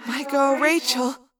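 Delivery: slow, grim approval; a friend bracing for a fight. Acted. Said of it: "Cassie said grimly".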